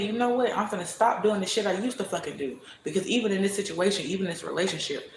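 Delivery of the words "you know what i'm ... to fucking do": fired-up vow. Retold or imitated. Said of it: "As soon as I said".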